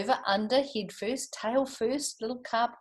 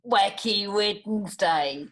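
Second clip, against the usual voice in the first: slow, louder reveal; big reveal; 4 dB louder, slower than usual. Shown as a demonstration. Teacher unveils the book title to the children. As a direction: draw out the title with showy excitement. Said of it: "You watch the title".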